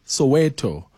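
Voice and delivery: "Soweto" said so-WEH-toh; correct Soweto pronunciation. Shown as a demonstration. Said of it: "my understanding is it's".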